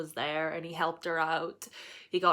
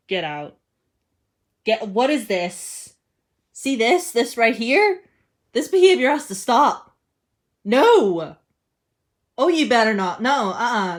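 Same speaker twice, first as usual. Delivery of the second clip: loud, high exasperated scolding; indignant "stop this"; scolding outrage; 3 semitones higher, 10 dB louder, slower than usual. Real, not acted. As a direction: tell off the character at full volume. Scolding a fictional character.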